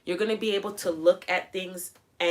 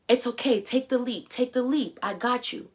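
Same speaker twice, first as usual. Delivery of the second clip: higher, reassuring parent voice; mock loving parent encouragement; reassuring coax; 5 semitones higher than usual. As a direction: coax yourself into the leap. Coaching a scared child to jump.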